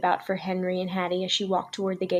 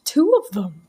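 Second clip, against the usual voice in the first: breathless whisper of wonder; hushed marveling whisper; awed whisper; 6 dB louder than usual. A narrator's reading. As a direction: whisper it in awe. Woman marveling at dolls.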